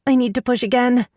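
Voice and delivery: high, strained voice of a woman pushing; strained labour cry. Acted. Woman in labour telling Brant she must push, high and strained. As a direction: squeeze it out high and urgent.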